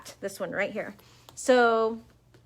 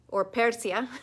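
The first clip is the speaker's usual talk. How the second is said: Spanish accent. Shown as a demonstration. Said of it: "put your Spanish accent on it".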